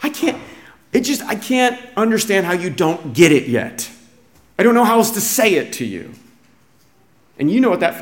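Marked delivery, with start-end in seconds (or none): 0.0-6.1 mock-exasperated teacher at a loss; acted, lightly raised exasperation. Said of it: "He's exasperated".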